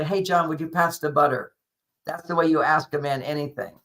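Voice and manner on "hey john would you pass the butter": easy, everyday ask with no pressure; casual dinner-table request. Shown as a demonstration. Asking John for butter at Thanksgiving dinner, casual request. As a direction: ask as if passing butter is a given. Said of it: "That's the tone of voice".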